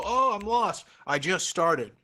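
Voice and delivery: high, whiny imitation of a lost student; mock lost student. Teacher mimicking a frustrated student, high and whiny. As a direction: play the overwhelmed beginner, half-joking. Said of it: "Don't get frustrated and go".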